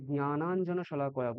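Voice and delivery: জ্ঞানাঞ্জন শলাকয়া with nasal nya at the start; correct Sanskrit pronunciation. Shown as a demonstration. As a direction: say জ্ঞানাঞ্জন as nya-naan-jana. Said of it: "বলতে হবে".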